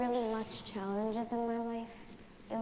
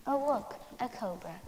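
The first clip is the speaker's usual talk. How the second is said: sudden, higher and louder Oh, look; startled cry; 4 semitones higher, 6 dB louder than usual. Acted. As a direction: jump at the sight of a snake. Sees a cobra in acted story.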